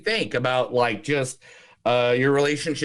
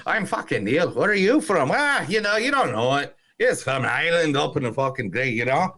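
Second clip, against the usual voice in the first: put-on breezy Irish accent, chatting up strangers; Irish pub chat. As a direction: play a chatty Irishman at the bar. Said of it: "Thank you for doing the Irish accent".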